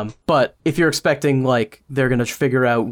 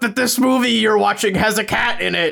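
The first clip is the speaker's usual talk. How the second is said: higher shouted mock delivery; bad acting; 8 semitones higher than usual. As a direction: overact it like cheap web video. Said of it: "continuing the mock reviewer skit".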